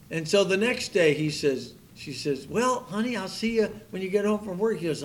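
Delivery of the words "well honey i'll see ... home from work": higher, brisk sweet wife sending him off; lightly voiced wife seeing her husband off to work; cheery wife. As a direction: chirp it like a happy new bride.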